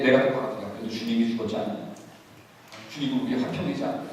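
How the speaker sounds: low, soft mock grumbling; muttered protest. Believer resisting the call to forgive, imitated low muttering. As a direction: argue back under your breath.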